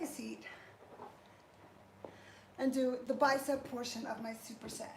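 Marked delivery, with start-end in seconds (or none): 2.6-4.9 breathless after a set; puffing through the words; out of breath. Real, not acted. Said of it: "I'm out of breath, y'all".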